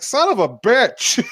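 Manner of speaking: high, drawn-out mock yelp of anger; pained cursing. Teller voices girl who just smashed her head, pained cursing. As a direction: stretch the curse out, imitating someone hurt.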